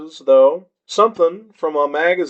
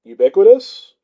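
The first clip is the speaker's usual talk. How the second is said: put-on drunk sounding out; 4 semitones higher, 5 dB louder than usual. A narrator's reading. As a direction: sound out Ubiquitous with numb tongue. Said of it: "sounding out the word across my fuzzy teeth".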